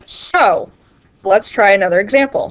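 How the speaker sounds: talking while chewing. Real, not acted. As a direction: speak around a mouthful. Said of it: "Sorry again for chewing".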